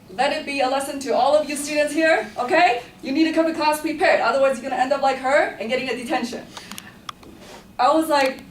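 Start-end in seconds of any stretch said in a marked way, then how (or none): 0.1-6.5 a hint of a stern teacher, higher and louder; teacher scolding the whole class, mock stern and loud; lecturing teacher. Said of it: "so she was like".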